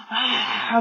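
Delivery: mild drawn-out mock roar; imitated yell. Teacher shows Jack yelling as he beats his chest, mock yell. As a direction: act out a yell without full volume. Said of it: "막 소리를 지르는 거지".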